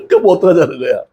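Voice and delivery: laughing. Real, not acted. Preacher laughs at kids' boasting.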